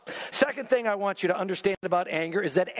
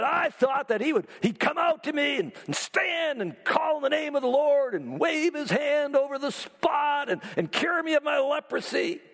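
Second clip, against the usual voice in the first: indignant raised shouting complaint; angry Naaman; 5 semitones higher than usual. Retold or imitated. Naaman storming off from the prophet, indignant shout. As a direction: voice the offended general's outrage. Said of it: "Naaman went away angry and said".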